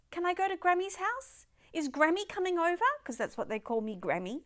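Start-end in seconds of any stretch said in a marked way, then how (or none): 0.1-2.8 little granddaughter. Retold or imitated. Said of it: "she wakes up ... says".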